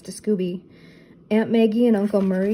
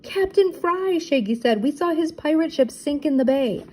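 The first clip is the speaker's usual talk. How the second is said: Shaggy voice; 8 semitones higher than usual. A narrator's reading.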